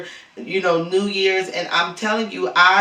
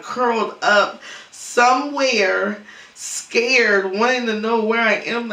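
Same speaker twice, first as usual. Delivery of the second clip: real grief; 4 semitones higher than usual. Real, not acted. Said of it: "I feel so sad".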